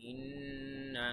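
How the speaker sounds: ইন্না with the doubled n held in a nasal hum; ghunnah. Shown as a demonstration. Teacher shows students the obligatory ghunnah, held n in ইন্না. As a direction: linger on the n of ইন্না. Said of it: "এখানে ওয়াজিব গুণ হবে".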